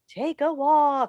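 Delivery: slow mocking repeat of his advice; sarcastic quote. Mother mocking the father's advice, slow and scornful. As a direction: drag it out, scornful. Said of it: "from that well-known expert, your father".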